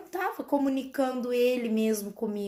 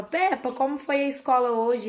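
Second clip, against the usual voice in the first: Daddy Pig; 2 semitones higher than usual. Retold or imitated. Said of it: "Papai Pig perguntava".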